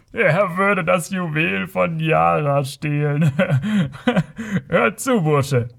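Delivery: high, drawn-out scornful jeer broken by laughter; grölender Spott. A narrator's reading. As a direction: jeer and laugh at the naive youth. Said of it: "gröhlte er". (gedehnt und höhnisch, mit Gelächter)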